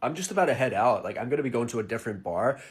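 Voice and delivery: lightly voiced laid-back American bro; casual bar chat-up, mimicking an American; American guy flirting.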